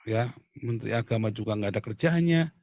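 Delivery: ordinary talk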